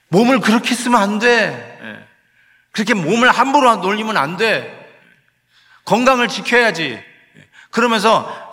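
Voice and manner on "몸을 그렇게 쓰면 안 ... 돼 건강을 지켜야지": higher, louder, pleading with a lamenting sigh in it; like a pained parent begging you to stop; sorrowful divine scolding, raised voice; grieving Spirit's plea. Acted.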